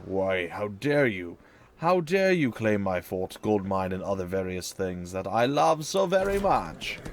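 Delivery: slow, hammed-up outrage in a put-on voice; mock indignation. Retaking his fort from enemies, mock-indignant put-on voice. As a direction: play the offended lord, slowly. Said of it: "angrily sit here and be like".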